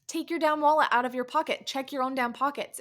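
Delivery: snapping at a careless husband; exasperated rant. Retold or imitated.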